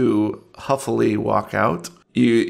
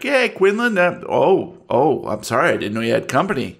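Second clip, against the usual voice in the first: Barfellow voice. Acted. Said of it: "He's like".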